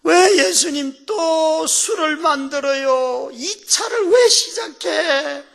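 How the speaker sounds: high, slow, loud mock wail at Jesus; acted tearful complaint. Son of a drinker complaining to Jesus, tearful wail. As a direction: wail the questions, dragging out the words. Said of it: "그러면서 막 울었어요".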